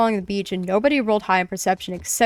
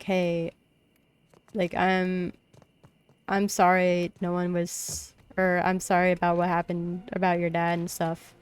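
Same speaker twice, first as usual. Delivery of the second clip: softer, gentle apology; very kind; 3 dB quieter than usual. Pretend. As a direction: say sorry tenderly to a friend. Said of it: "very, very, like, kind".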